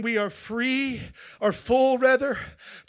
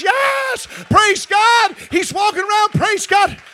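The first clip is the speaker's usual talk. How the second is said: imitated praise; 11 semitones higher, 8 dB louder, slower than usual. Imitates healed man praising.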